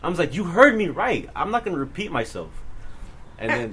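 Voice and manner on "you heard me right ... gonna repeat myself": defiant comeback. Retold or imitated. Student standing up to staffer, acted defiance. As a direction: hit the opening hard, then settle.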